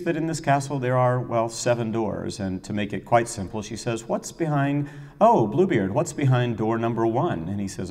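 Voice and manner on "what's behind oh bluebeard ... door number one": lightly acted higher-pitched pleading question; a touch of a wheedling opera heroine; curious Judith. Judith asks Bluebeard about the doors, lightly acted curiosity.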